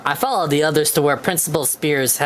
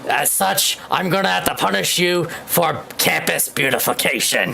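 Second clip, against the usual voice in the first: Senator Armstrong voice. Acted. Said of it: "my best Senator Armstrong impression".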